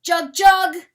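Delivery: loud, high, desperate bird call; frustrated bird cry. Acted. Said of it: "in wild frustration".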